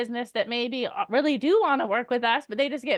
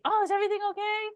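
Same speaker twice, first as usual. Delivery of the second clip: concerned; 8 semitones higher, much faster than usual. Shown as a demonstration.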